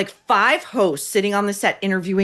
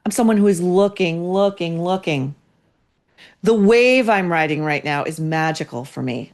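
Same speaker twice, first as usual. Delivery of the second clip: mocking Hoda. Host parodying Hoda's quote, lightly mocking. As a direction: parody her dreamy self-importance. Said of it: "Next, she says".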